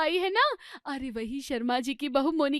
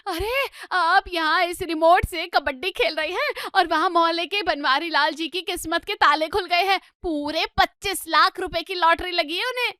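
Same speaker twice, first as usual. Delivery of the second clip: breathless excitement; 2 semitones higher, 4 dB louder than usual. Acted. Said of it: "हाँफते हुए आती है".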